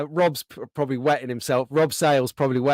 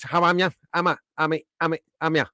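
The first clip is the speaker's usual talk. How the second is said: mock Black Country greeting, repeated; playful run of Black Country dialect; Black Country accent; much faster than usual. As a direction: imitate the Black Country yam-yam twang. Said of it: "Like this".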